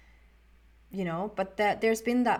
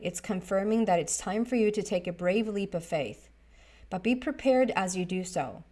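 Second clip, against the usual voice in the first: reading from a book. Acted. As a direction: read the book passage aloud for the viewers. Reads card meaning from book.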